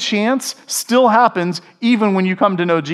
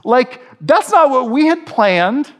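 mock freaking out; 5 semitones higher, slower than usual. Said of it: "the disciples are freaking out".

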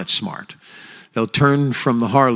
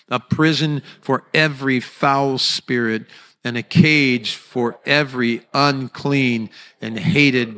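raised, measured congregational reading; lightly raised proclaiming voice; reading out loud together; 2 semitones higher than usual. Acted. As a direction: lead the room in proclaiming scripture. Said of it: "With as loud a voice as you dare".

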